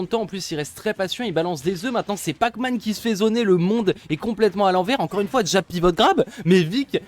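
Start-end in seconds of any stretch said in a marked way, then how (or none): 1.9-7.0 commentaire excité. Real, not acted. Pac-Man zoné, action de jeu surprenante.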